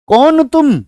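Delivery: high questioning voice as Radha; Radha asking. Acted. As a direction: ask like a curious Radha. Teacher acts Radha asking.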